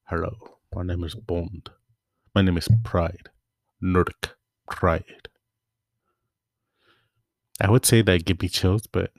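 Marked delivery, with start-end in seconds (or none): 0.0-5.3 lightly suave spy introduction, barely off his own voice; a hint of smooth Bond charm; James Bond. Host pretending to be James Bond in a suit, mildly suave. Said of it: "like, James Bond would wear".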